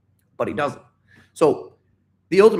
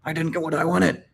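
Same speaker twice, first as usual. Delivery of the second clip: mock angry whining. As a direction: imitate a tantrum, half-hearted. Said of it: "you were angry".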